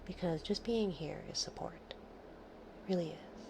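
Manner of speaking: slow whispered reassurance; slow down and whisper it kindly; comforting whisper. Real, not acted.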